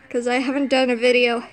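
breathless, running out of air; short of breath. Real, not acted. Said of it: "I'm running out of breath".

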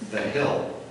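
"that hill" with a slipped-in Southern twang; "hill" drawn out like Kentucky; a touch of Southern accent on "that hill". Real, not acted. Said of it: "That sounded like a southern accent".

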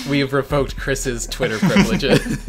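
laughing announcement. Pretend. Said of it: "the next tweet is like".

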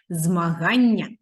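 Змагання drawn out slowly and loudly; slow, clear model word. Shown as a demonstration. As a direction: say Змагання slowly so the kids can repeat it. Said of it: "Проговоріть його разом зі мною". (повільно й чітко: Змагання)

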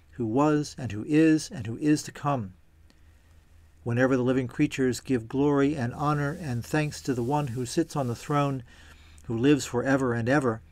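measured, even scripture reading; solemn Bible reading in an unhurried voice. A narrator's reading. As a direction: read the passage aloud with clear, falling phrase ends. Reads scripture aloud before commenting.

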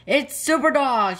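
high excited call of car drivers; excited shout. A narrator's reading. Car drivers spotting the hero dog, high excited shout. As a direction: shout it out gladly. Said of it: "shouted the car drivers".

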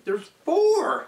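high excited squeal. Real, not acted. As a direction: blurt it out, high and loud. Miscounting candies, squeals.

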